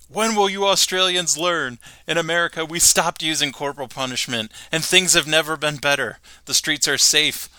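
lightly voiced Homer lecturing; Homer speech. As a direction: preach American freedom, lightly voiced. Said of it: "he says".

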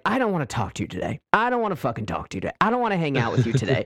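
rattled off fast and offhand; dismissive brush-off. Retold or imitated. Partner brushing off the other in a relationship, fast and dismissive. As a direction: fire it off quickly, brushing them away. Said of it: "you just kinda like".

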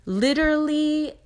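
literally jumps up high, excited; excited burst. Real, not acted. Excited about sudden money.

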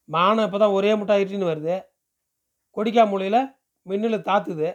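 a hint of a worried villager; lightly voiced village man, urging. Man warns the girl of coming rain, mildly urging. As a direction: nudge her for an answer, lightly in character.

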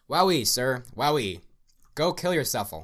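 shrieking, high mad excitement; manic glee. Acted. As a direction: yell it in wild glee. Ruiz shouting in mad glee.

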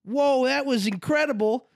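slow, high drawn-out mock awe; drunken amazement. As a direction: imitate a wowed drunk crowd. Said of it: "So we're hammered. We're like".

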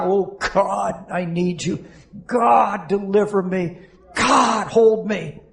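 imitating a cry out to God; heartfelt cry. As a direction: plead from the heart, lifting each "God". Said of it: "there's a cry so loud that heaven can hear it".

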